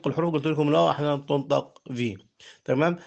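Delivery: ordinary talk, nothing marked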